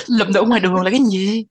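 laugh, then ask in amused bafflement; amused disbelief. Real, not acted. Friend questions a book picked up on the street, laughing.

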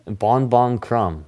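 slow, stretched name announcement; announcer imitation. Host repeats the announcement for co-host who missed it, slow announcement. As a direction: space the words out evenly. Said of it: "That's how they announce him".

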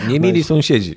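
giggling at his own joke; laughing. Real, not acted.

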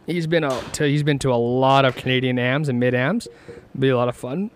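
talking through hiccups. Real, not acted. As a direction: hiccups breaking the words. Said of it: "Sorry about the hiccups".

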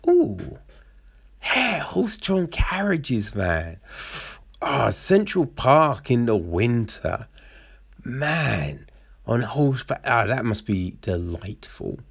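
put-on daydream aloud about old New York; lightly hammed romantic musing; mock dreamy swooning. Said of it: "you do be like".

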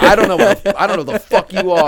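laughing through the quote. Real, not acted. Laughing while quoting.

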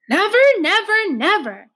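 high, loud, desperate bellow; loud anguished shout of never; bellowing refusal. Acted. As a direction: roar it out like a cow robbed of her calf. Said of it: "Trotter was bellowing like an old cow".

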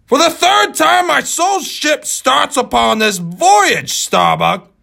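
put-on old sea captain. Ahab voiced in novel.

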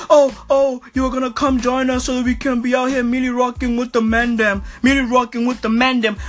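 fast hyped mock voice; mocking quote. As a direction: parody his hype talk. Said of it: "Jesse Lingard".

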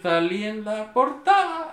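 high, drawn-out gleeful proclamation; Mike Wazowski. Acted. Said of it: "Mike Wazowski".

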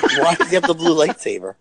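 said aloud through a laugh. Retold or imitated. Podcaster repeating the theater question aloud, laughing. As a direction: chuckle through the retold question. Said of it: "I don't know why I was whispering".

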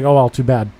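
lightly smug mock dismissal; retold smugness. Pharmacist refusing a customer his prescription, mildly smug. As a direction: brush it off with a touch of smugness. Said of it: "Like, smug fucking prick".

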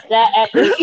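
breaking into a laugh. Real, not acted. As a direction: laugh through the words. Laughing at the joke.

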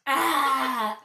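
loud bleating goat cry. Pretend. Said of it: "That was my impression of a goat".

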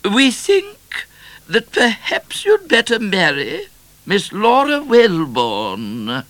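very high, loud, slow proclamation; regal Queen calling. A narrator's reading. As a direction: project a royal decree from the stairs. Queen advises from the stairs.

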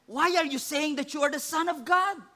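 the high priest demanding why Jesus claims it; indignant demand. Acted. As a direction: confront him.

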